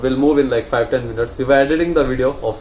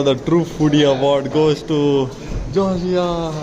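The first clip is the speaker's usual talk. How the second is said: mock award presenter; slower than usual. Vlogger presenting a true foodie award, mock announcer. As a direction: announce the winner, stretching the name.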